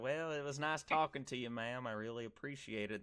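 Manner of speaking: polite Southern farewell; courteous good old boy Southern; Southern accent. Retold or imitated. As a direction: take leave in a lightly put-on Southern accent. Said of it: "when you do your Southern accent".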